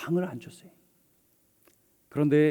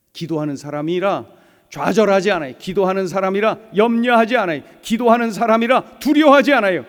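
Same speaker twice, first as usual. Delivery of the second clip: building triple; 2 semitones higher, 6 dB louder than usual. Real, not acted. Rising triple in preaching.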